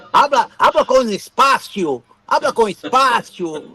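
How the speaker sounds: slow and deliberate, word by word; slow, spaced-out Spanish. Retold or imitated. Telling the woman in the hotel room to speak slowly, drawn out. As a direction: ask her to speak slowly, spacing each word. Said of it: "aprendi a falar".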